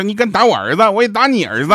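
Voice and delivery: a mum snapping back at dad in a hammed-up rage; angry mum. 妈妈气得冲爸爸吼，夸张愤怒. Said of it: "我瞬间就怒了".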